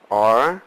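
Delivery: ARE punched loud with a rising tune; stress on ARE. Shown as a demonstration. Teacher marking the word to stress, ARE stressed. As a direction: hit "are" hard and lift it. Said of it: "stressing on the word, uh, the second word".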